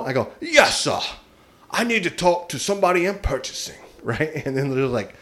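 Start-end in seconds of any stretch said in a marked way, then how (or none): 0.4-3.8 disguise your voice as a fancy business caller; a prank caller putting on a posh-sounding business voice; elaborate put-on phone voice. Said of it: "I had some elaborate voice".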